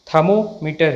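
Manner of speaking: थर्मोमीटर with the first r left out; silent r. Shown as a demonstration. Teacher confirms correct pronunciation, first r silent. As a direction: say थर्मोमीटर as "thuh-mo-meter". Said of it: "सही pronunciation".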